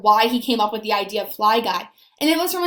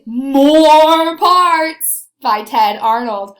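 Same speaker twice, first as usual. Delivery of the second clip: title announcement; 6 dB louder, much slower than usual. Real, not acted.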